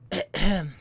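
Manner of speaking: short mocking throat-clear; mocking ahem. The man leans over after the movie, mocking ahem. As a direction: mimic someone's ahem back at them. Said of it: "in a mocking way".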